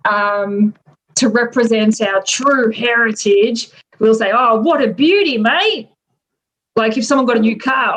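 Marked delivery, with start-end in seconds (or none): 4.3-5.9 broad ocker Australian exclamation; more Australian. Acted. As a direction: lay on the Aussie accent a little. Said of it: "if we wanna sound more Australian".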